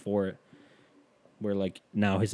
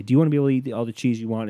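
higher, louder ad pitch; the ad cut line, sold hard; commercial voice; 3 semitones higher, 6 dB louder, much faster than usual. Retold or imitated. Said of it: "it cuts after I say".

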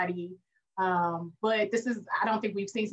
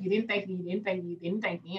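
mock hurt wife; 4 dB quieter than usual. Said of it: "she kept saying".

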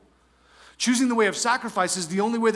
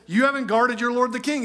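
higher-pitched mock reproach; taunting; 4 semitones higher, 3 dB louder than usual. David scolding Saul's bodyguard, taunting. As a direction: rub it in, a touch over the top. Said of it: "a little bit over the top and taunting".

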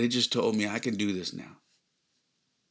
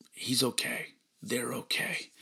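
tag; 4 semitones higher, slower than usual. Real, not acted. Choked relief at the sign.

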